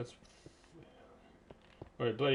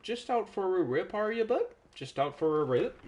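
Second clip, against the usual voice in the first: higher Aussie teasing taunt; teasing bogan voice; 8 semitones higher, 3 dB louder than usual. Pretend. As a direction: needle him like a larrikin mate. Teasing Simon again.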